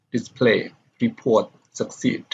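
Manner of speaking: dis-PLAY, re-PORT, suc-CEED; second-syllable stress. Shown as a demonstration. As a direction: stress the second syllable of "display", "report", "succeed". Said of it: "the stress is on the second syllable".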